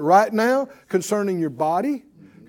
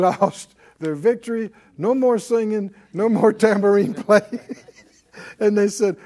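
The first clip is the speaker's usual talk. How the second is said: ordinary talk, nothing marked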